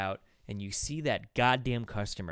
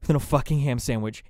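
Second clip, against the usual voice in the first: louder, exasperated inner rant; loud fed-up server; frustrated rant; 2 semitones higher, 7 dB louder than usual. Retold or imitated. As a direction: vent it with a sigh through gritted teeth. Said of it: "and you're like".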